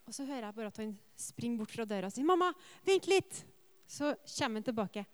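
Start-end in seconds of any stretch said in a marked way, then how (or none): 2.3-3.4 put-on much higher and louder child's call; a boy with a sudden idea; little boy voice. Son runs off, voiced.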